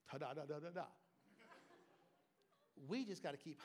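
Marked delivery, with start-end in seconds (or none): 0.1-0.9 mock resigned. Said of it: "never in your pride go".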